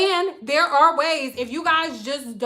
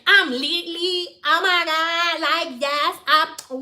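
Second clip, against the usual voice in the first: put-on Valley girl voice; 3 semitones higher, slower than usual. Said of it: "that's Valley girl".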